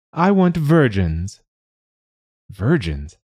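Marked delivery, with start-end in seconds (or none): 0.1-1.4 high, slow tenor dragon voice; a dragon stating its price, high and drawn out; dragon's tenor demand. A narrator's reading. Dragon demanding virgins from the negotiator, high slow tenor. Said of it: "This dragon had the voice of a tenor".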